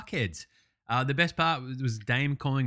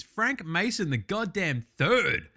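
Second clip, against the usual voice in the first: high name, slow drawn-out title; hype announce; 5 semitones higher, slower than usual. Real, not acted. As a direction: announce him like a ring intro. Hyping a player's name.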